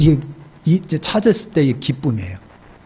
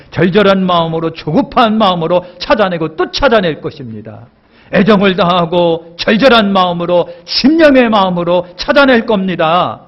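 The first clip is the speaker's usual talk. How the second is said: louder, higher, pleading build; impassioned preaching; 4 semitones higher, 5 dB louder than usual. Real, not acted. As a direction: pour the heart out. (간절하게 높아지는 외침)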